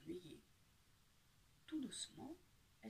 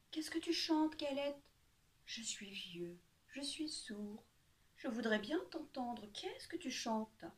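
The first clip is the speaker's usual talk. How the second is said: sly fox; 3 semitones higher, slower than usual. Acted. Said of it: "le malin renard".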